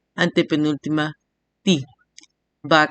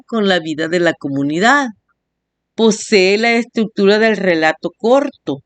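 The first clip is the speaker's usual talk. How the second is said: reading aloud; 4 semitones higher than usual. A narrator's reading. Reads a definition aloud.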